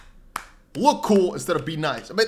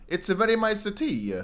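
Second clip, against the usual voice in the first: higher, mock Italian accent; playful attempt at an Italian accent; 4 semitones higher than usual. Shown as a demonstration. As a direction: read it in a light Italian accent. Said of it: "like, an Italian accent".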